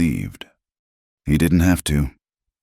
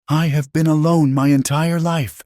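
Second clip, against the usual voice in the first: high, strained dramatic outcry; anguished scream; 12 semitones higher than usual. A narrator's reading. Woman alone all her life, screaming at him in anguish. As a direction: cry it out at a high pitch. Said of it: "she screamed, her voice breaking".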